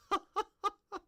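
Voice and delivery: high, loud peal of laughter; real laughter. Real, not acted. Speaker cracking up over the awkward segue, high loud laugh. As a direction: crack up helplessly for a moment.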